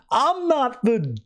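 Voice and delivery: high-pitched, emphatic mock indignation; vengeful spirit rebuke. Spectre correcting Anton about mercy, high and indignant. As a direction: play a scornful spirit correcting a victim.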